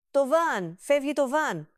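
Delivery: high, loud alarm cry; high panicked yell; panicked scream. A narrator's reading. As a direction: shriek as the van rolls away. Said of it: "ούρλιαζε η Χαρούλα".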